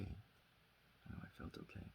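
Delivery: very soft, nearly voiceless; hushed admission. Acted. Recovering cook telling the meeting he felt okay, hushed. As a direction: let it drop almost to a whisper. Confession at Al-Anon, voice drops away.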